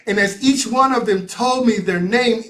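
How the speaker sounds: ordinary delivery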